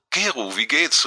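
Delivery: bright lift on the greeting, pleased to hear him; detective happily greets an old friend on the phone, glad. A narrator's reading. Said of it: "rief sie erfreut".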